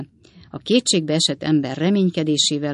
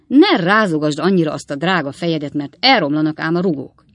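mild irritation; 5 dB louder than usual. Acted. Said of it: "mondta Sam ingerülten".

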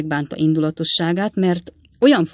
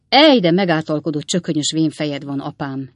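mild exclaim; 4 dB louder than usual. Acted. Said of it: "kiáltott fel Sam".

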